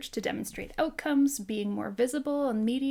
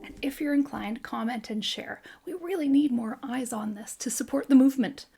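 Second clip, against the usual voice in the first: urgent, pressing call to share; fierce plea; 6 dB louder than usual. Real, not acted. Therapist urging viewers to share, fiercely insistent. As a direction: push hard for viewers to share the cause. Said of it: "That's my fierceness".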